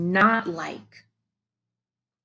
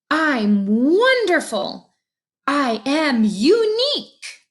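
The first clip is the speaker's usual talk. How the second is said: proud declaration; 6 semitones higher, 3 dB louder than usual. Acted. Kiri telling Frenzy how he came to love himself, proud. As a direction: savour each word of pride.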